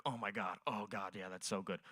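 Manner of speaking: soft, low mock moan, lightly voiced woman; a hint of a woman moaning; quiet mock pleasure moan; feminine moaning. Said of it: "it sounds more feminine".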